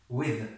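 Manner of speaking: "With." with the th said as a z, tongue tip touching; teaching "With." with the tongue tip at the teeth; tongue-tip pronunciation. Shown as a demonstration. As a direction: model "With." slowly with a tongue-tip z for the th. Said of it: "یعنی زی با نوک زبان with".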